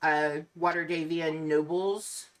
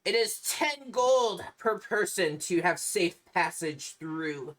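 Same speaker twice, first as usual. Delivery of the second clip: vampire voice. Acted. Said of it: "calls out to the group and says".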